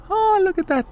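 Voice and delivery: mock surprise. Mocking the divine feminine.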